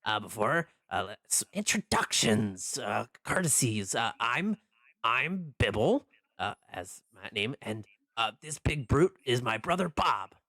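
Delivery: lightly voiced dopey shopkeeper; dopey cartoon bellow. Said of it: "he says".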